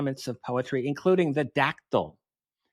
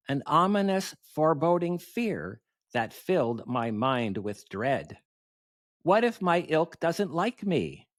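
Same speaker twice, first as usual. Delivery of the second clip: poem recitation. Acted. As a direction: recite comic verse with swooping cadence and pauses. Recites own poem at symposium.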